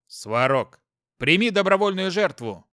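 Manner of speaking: loud, ringing call to a god; solemn invocation shout. Acted. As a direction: cry out the sacrifice to the god. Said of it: "произнёс я".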